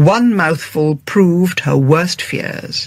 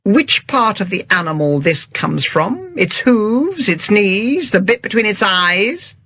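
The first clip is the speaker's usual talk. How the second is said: thin voice; 4 semitones higher than usual. Acted. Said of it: "said Agatha in a thin voice".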